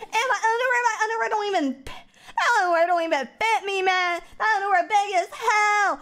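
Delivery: hammed-up sobbing complaint, pitch climbing; mock sobbing over baggy underwear; mock crying. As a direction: blubber it out like a comic breakdown. Wailing about big underwear.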